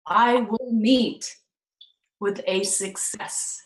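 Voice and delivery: slow, spaced quote with long pauses; solemn slow reading that softens away; slow dictation. Shown as a demonstration. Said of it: "I'm gonna say this very slowly".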